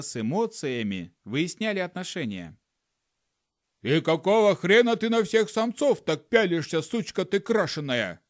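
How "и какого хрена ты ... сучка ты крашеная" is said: male monkey yelling jealously at his mate, louder and higher; jealous monkey husband screaming; angry shout. Acted. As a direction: snarl it out, furious. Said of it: "закричал обезьяна-мужик".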